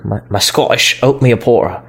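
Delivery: muddled attempt at a Scottish accent; half-hearted, unidentifiable Scottish accent; failed Scottish accent. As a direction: badly fake a Scottish accent, dropping consonants. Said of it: "I don't know what accent that was".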